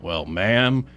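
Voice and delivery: slow, lightly voiced cowboy drawl; a hint of John Wayne's easy drawl; cowboy being gallant to a lady, lightly. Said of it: "and then John Wayne".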